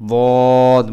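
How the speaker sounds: বদ loud, with the mouth full; full-mouthed dad. Shown as a demonstration. Teacher correcting dad pronunciation, full-mouthed. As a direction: say বদ heavy. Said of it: "মুখ ভর্তি করে".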